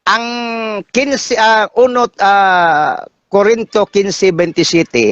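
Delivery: slow, halting, with pauses between words; deliberately slow. Real, not acted. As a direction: take it slowly, feeling for each word. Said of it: "dahan-dahanin ko kasi".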